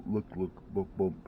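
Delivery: ordinary talk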